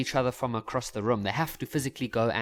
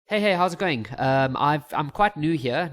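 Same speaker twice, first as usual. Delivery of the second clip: nervous; 2 semitones higher, 4 dB louder, slower than usual. Acted. New guy approaching a girl, acted nerves. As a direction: act a little too eager and jittery. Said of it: "I sound nervous".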